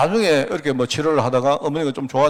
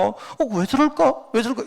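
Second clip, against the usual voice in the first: much higher, drawn-out puzzled voice; mock childlike puzzlement, pitched way up; imitated puzzled wondering; 10 semitones higher than usual. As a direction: wonder aloud in a high, slow voice. Voices his childhood puzzlement at sermons.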